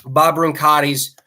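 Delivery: parched, dry-mouthed speech. Real, not acted. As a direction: talk with a dry throat. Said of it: "Sorry, I'm getting parched here".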